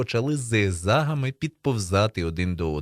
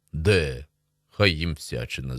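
lightly voiced low bass, puzzled; surprised bass; 6 semitones lower, slower than usual. A narrator's reading. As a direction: drop lower for a puzzled boy's bass. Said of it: "здивовано пробасив Бурмило".

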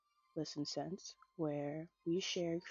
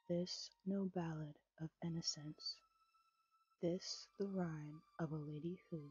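poem reading. A narrator's reading. Reads second poem aloud.

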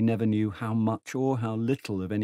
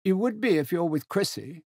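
put-on higher, hearty voice of an old general; 9 semitones higher than usual. Old General hails Tegens across the platform, hearty and high. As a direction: boom out a jovial old soldier's greeting.

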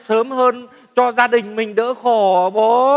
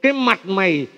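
imitating mum's scolding; 3 dB louder than usual. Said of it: "Mẹ hay mắng con là".

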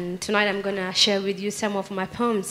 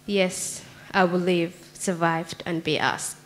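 poem recitation. Acted. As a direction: recite it line by line, letting the refrain land. Recites her own poem.

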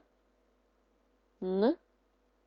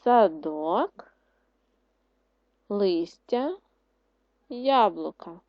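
words drawn out; 4 dB louder, much slower than usual. Shown as a demonstration. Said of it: "Складемо з листочків слова".

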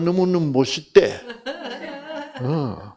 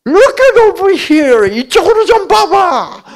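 high, loud, drawn-out call; 9 dB louder, much slower than usual. Retold or imitated. Older sister calling Susan to look her way, drawn-out high call. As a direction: call her to turn around, very slowly.

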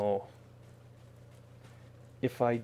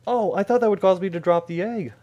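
higher, louder surprised realization; real surprise, raised voice; 8 semitones higher, 5 dB louder than usual. Real, not acted. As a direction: pitch up and louder, caught off guard by the game. Game outcome defies expectation.

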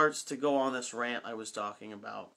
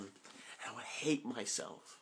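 choked up; 3 semitones lower, 10 dB quieter, slower than usual. Real, not acted. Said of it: "try not to get emotional".

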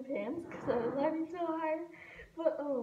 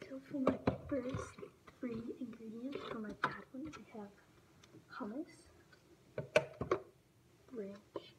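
whispering; 4 dB quieter than usual. Real, not acted. Whispering while prepping plates.

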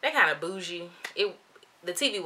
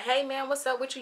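higher-pitched, friendly greeting; jovial manager; 8 semitones higher than usual. Retold or imitated. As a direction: imitate a super nice young manager. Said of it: "Young man, super jovial, super nice".

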